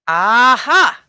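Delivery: loud, pleased aha; exclaiming aha. A narrator's reading. Storekeeper recognizing the coin, delighted exclaim. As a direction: pounce on the discovery. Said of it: "he exclaimed".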